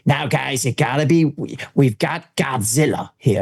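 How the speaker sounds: lightly put-on American announcement, slowing down; a hint of a showman's warning; American guide. Guide warns guests about what lives here, lightly imitated American. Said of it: "he goes".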